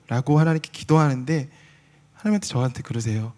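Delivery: usual speaking voice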